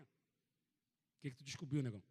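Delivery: slow, drawn-out wary question; lightly voiced cautious buddy; wary friend. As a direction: stretch it out like a suspicious friend. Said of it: "Ele olhou pra mim assim".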